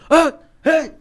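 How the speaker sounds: sudden high yelped outburst; imitated shouting tic. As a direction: yelp it out abruptly, loudly. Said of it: "ele tem esse tique de gritar".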